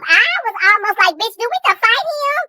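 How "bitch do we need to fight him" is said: high, incredulous question; high playful offer to fight; mock alarm. Friend retells her own reaction.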